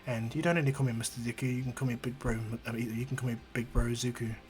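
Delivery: soft, gentle big-brother voice; hushed, kindly reassurance; reassuring hero. Acted. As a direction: comfort her quietly. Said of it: "He heals her injury and goes".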